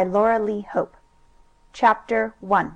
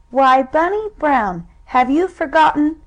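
mock scolding girl; 5 semitones higher, 4 dB louder than usual. Sue scolding brother.

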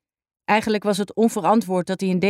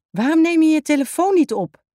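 upset demand; 8 semitones higher, 4 dB louder than usual. A narrator's reading. Hanna confronts Jack upset.

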